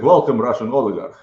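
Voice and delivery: teasing welcome in a put-on Russian accent. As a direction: imitate someone putting on a Russian accent. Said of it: "a Russian accent".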